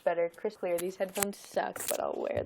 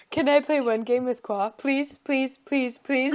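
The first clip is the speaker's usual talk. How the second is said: loud, higher mock begging; imitated pleading; 4 semitones higher, 12 dB louder, slower than usual. Imitating Oscar begging for a game, loud mock pleading. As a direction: beg eagerly, repeating it like an impatient kid.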